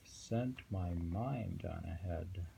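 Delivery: slow, measured poem reading. Acted. Reading a Zen poem to his companion, slow and measured. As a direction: savour each line of the verse.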